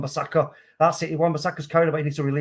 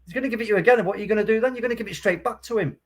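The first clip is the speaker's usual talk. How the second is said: annoyed; 6 semitones higher, faster than usual. Real, not acted. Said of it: "I'm getting really annoyed with it".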